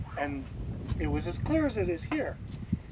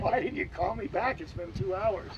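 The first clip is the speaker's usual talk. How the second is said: higher-pitched retold fretting; agitated complaint; 3 semitones higher than usual. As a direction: imitate an impatient friend, pitched up. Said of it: "had been pacing the ceiling".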